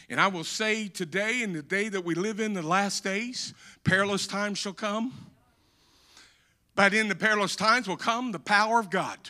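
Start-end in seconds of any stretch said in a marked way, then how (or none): 0.1-5.1 softer, hushed warning; quiet gravity. Acted. Quiet prophetic statement.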